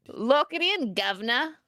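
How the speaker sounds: Cockney attempt that comes out pirate; bad Cockney accent. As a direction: aim for Cockney, land on pirate. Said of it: "I think you did pirate".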